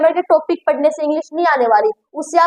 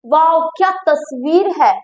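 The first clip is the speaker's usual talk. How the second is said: admiring. Shown as a demonstration. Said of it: "मेरी feeling देखो".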